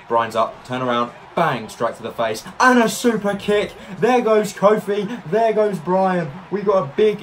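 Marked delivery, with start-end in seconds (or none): 2.6-7.2 excited. Real, not acted. Multiple eliminations excitement.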